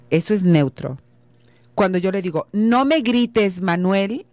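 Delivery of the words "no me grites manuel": with emotion. Shown as a demonstration. Wife demoing an emotional reply to Manuel, slow and higher. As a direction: scold him, pressing each word. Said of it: "es con emoción".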